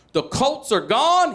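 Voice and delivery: high, slow stunned question; shocked question. Retold or imitated. Son hearing the Colts left town, stunned. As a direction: let the news land hard. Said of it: "dad's news".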